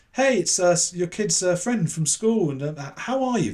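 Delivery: put-on nervous kid caller. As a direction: play a nervous teenage boy fumbling on the phone. Kid nervously calling the mum.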